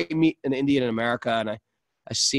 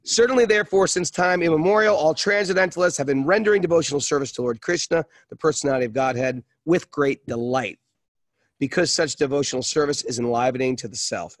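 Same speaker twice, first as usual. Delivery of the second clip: scripture reading. Acted. Reads scripture aloud.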